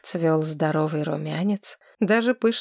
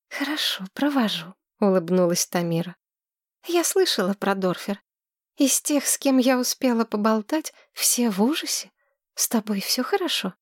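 put-on high, breathless girl gushing in love; dreamy young woman; 4 semitones higher than usual. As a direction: swoon over him like a smitten girl. Tamira voice again.

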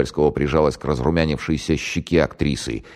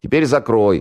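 mock mother command; 8 semitones higher, 4 dB louder than usual. Mock mother feeding the son.

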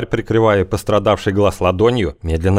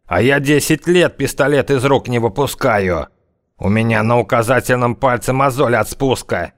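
brash thug bragging; cocky tough guy; 4 semitones higher than usual. Acted. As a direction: swagger through the boast. Thug boasting over rival gang.

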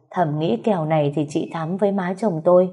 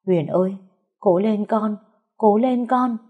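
pleading cry, climbing higher; tearful wail; 3 semitones higher than usual. A narrator's reading. Woman in purple urges her dying child on, wailing. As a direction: urge your child on through mock tears. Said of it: "Bà ta khóc than kêu gào".

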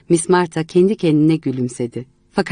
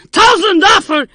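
higher, louder German curse; angry German shout; 7 dB louder than usual. Acted. Painter cursing Miss Martha in German, furious shout. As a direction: spit the foreign oath in a rage. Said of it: "ona benzer Almanca bir şeyler söyledi".

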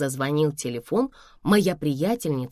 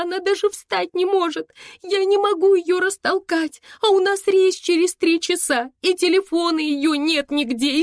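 much higher, rushed, anxious pleading; frightened babbling; 11 semitones higher, 3 dB louder than usual. Acted. Daughter babbling to mom about the unconscious friend, high and frightened. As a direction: babble it out scared and helpless. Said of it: "лепетала Саша".

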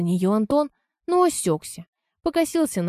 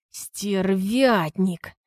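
hissed; much slower than usual. Acted. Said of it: "прошипел Антон".

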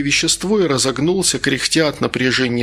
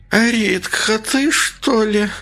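higher, slow hoarse voice; a weak, hoarse call on waking; 8 semitones higher, much slower than usual. Acted. Valentina waking, calling hoarsely to Rita. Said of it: "сиплый голос".

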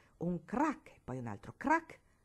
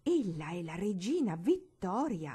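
slow, firmly exclaimed correction; a grandmother scandalised, stretching each word; grandmother exclaiming; 4 dB louder than usual. Acted. Grandmother rebuking the girl about the portrait, slow and indignant. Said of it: "aveva esclamato".

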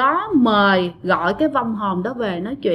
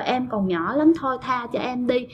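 softly imitated begging; retold pleading; 7 dB quieter than usual. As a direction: plead gently, dropping the volume. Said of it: "mẹ bạn mới năn nỉ quá trời".

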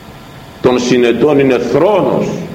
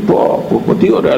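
hushed admiring gasp. Acted. Elder admiring the gold chain.

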